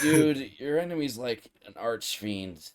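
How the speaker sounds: lightly voiced surfer dude. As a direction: toss it off like a laid-back surfer. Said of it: "more of a surfer dude thing".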